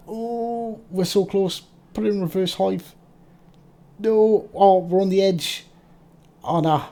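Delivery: high, loud panicked cry; alarm shout. Real, not acted. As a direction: yelp it out in alarm. Enemy closing in, panicked.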